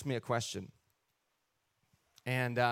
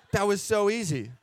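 said through a light laugh, louder; delighted, laughing at how simple it was; 4 semitones higher, 3 dB louder than usual. Retold or imitated. Repeats it laughing.

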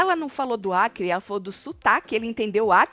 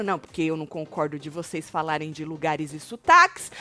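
low, softer grumble; grumbling; 7 semitones lower, 5 dB quieter than usual. Retold or imitated. Retelling Nádia coming back from the kitchen, low grumbling. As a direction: complain under your voice, low and sullen. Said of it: "Aí ela voltou resmungando".

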